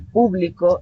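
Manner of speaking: "público" stressed on PÚ, as a noun; PÚ-bli-co, accent up front; stress on first syllable. Shown as a demonstration. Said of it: "según mi pronunciación".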